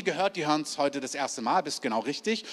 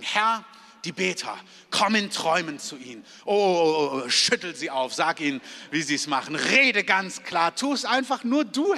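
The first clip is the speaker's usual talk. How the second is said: fervent prayer. Pretend. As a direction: cry out to the Lord in mock fervour. Gespieltes inbrünstiges Gebet. (gespieltes inbrünstiges Gebet)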